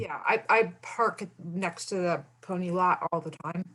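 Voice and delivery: talking while eating lunch; chewing noisily. Real, not acted. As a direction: speak through a mouthful of food. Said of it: "Sorry, I'm eating my lunch".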